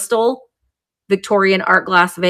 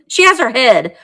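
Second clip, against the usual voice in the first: laughing; 2 semitones higher, 4 dB louder than usual. Real, not acted. Repeats it with a laugh.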